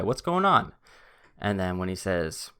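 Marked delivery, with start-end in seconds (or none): 0.0-0.7 casual opener, pitch swooping high; easygoing rehearsed greeting; relaxed greeting. Acted. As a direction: greet him like a relaxed guy, lilting up. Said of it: "Very relaxed. He looked like a relaxed guy".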